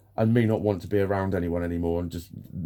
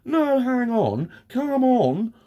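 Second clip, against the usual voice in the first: much higher, louder and slow, a hammed-up whine; mock them with a drawn-out high protest; mocking defensive people; 6 dB louder, much slower than usual. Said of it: "they go".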